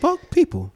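FUCK hit hard and high; emphatic cursing. Real, not acted. Friend cursing people off with a hard punch on "fuck". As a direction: lean hard on the word "fuck". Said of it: "when I cuss, I put emphasis on it".

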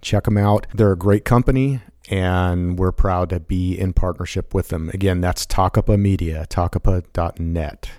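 measured podcast ad read; steady announcer-style plug; sponsor read. Acted.

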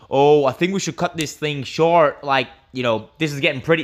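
lightly attempted Southern redneck accent; a half-hearted, bad imitation of the boat operator's accent; horrible gator-guide accent. Gator guide tells passengers to cut the tour short, bad local accent. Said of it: "this is a horrible accent".

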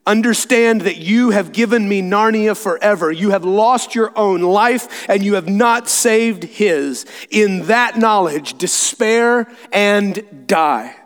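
slow, weighted pronouncement of doom; villain's triumph. Acted. Witch to Aslan before killing him, slow triumph. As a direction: draw out the last words as a death sentence.

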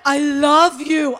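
loud, drawn-out mock declaration; gushing love. Joyful convert to strangers on the ferry, gushing. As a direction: stretch it out, overflowing with love.

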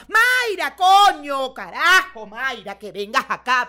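grito llamando. Retold or imitated. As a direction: yell across the house for the girl. Abuela llamando a gritos en casa. (grito de abuela llamando)

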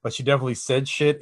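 ordinary talk, nothing marked

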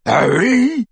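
high-pitched jeering echo; mocking mimicry. A narrator's reading. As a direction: parrot the caller mockingly. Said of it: "mimicked Crabbe".

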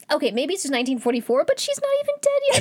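rushed, climbing into a high squeal; mock protest. Co-host mocking why they gave up on the mother, high-pitched mock protest. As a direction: race upward in comic disbelief. Mocking the decision makers in retelling.

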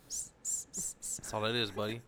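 "That's all it is" whispered slowly, every s hissed long like a snake; hissing the S's. Shown as a demonstration. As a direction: stretch each s in "That's all it is, buddy" into a long snake hiss. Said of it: "You just hiss the S's".

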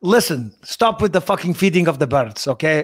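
put-on lightly done Dagestani Khabib accent; a hint of Khabib quoting Rocky; mild Dagestani accent as Khabib. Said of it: "Rocky quotes as Khabib".

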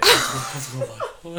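loud attempt at a Cork accent; playful Cork accent. Shown as a demonstration. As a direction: copy a Cork lilt, a bit big. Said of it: "can you hit us with a Cork accent".

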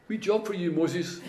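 offhand, like asking a small favour. Retold or imitated. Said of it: "and then God goes".

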